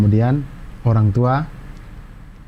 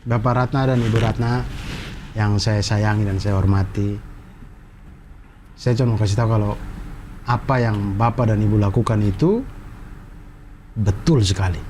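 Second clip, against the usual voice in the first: sincere; 5 semitones lower than usual. Real, not acted. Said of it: "ke kameranya".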